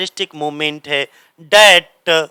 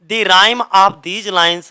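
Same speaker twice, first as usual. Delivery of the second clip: drawn-out read of the question phrase; slow dictation reading; 2 semitones higher, much slower than usual. Shown as a demonstration. Teacher to exam students, slow question read. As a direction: say it slowly so they can note it.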